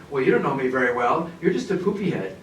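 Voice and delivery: childish mock sulk, laughing at the end; sulky inner retort. Teacher voicing a wounded listener's thoughts, childish mock sulk. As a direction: play a hurt listener grumbling to himself. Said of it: "I'm gonna be thinking".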